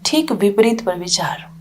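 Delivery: calm, spacious phrases with long pauses; guided meditation. Real, not acted. Teacher guiding listeners from anger toward compassion, calm meditation guidance. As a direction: guide them inward, leaving silence after each phrase.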